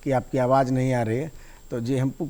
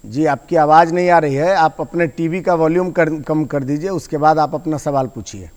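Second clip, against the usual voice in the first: raised voice; 3 semitones higher, 7 dB louder than usual. Real, not acted. Host calling out to caller on phone.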